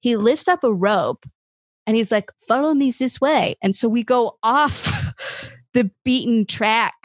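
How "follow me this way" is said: higher, put-on French accent; bad French accent. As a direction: imitate a French guide beckoning. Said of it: "this is a horrible French accent".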